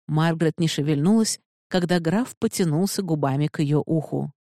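ordinary delivery, nothing marked

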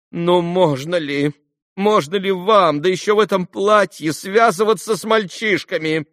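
высокий громкий гневный упрёк; отчитывает его, как имеющая право; гневный возглас. A narrator's reading. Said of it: "гневно вскричала она". (Лиз гневно отчитывает Алёшу)

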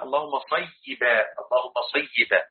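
صيبا drawn out as "say-yi-ban"; correct pronunciation. Shown as a demonstration. Teacher showing how the Prophet said it, careful pronunciation. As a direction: dwell on the doubled ya of صيبا, "sayyiban". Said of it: "النبي صلى الله عليه وسلم قال".

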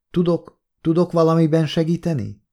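halting start, then a compassionate question; sympathetic. A narrator's reading. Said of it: "kérdezte részvéttel a hangjában".

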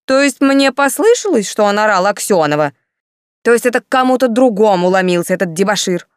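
sarcastic anger. Acted. Commandant mocking Yulka's denial, loud and sarcastic. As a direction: throw her denial back at her.

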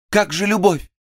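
a high, loud, overwrought plea; a passionate plea to her madman lover, high and loud; overplayed pleading monologue. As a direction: ham up the lovesick pleading. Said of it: "монолог, пожалуй, был исполнен с пережимом".

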